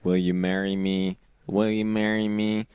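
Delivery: weak imitation of a robot voice; half-hearted robotic repeat. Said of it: "they got the robot voice".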